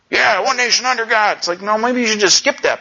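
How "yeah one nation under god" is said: breezy, glib "Yeah, one nation under God"; mock confident. Shown as a demonstration. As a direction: rattle it off with hollow confidence. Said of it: "state it with confidence".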